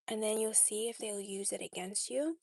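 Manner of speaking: unvoiced, secretive whisper. Real, not acted. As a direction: breathe it as a secret. Whispered aside.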